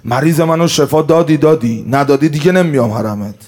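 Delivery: petulant pilgrim issuing an ultimatum; demanding pilgrim. Retold or imitated. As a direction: lay down terms to the saint, loud and insistent. Pilgrim bargaining at the shrine.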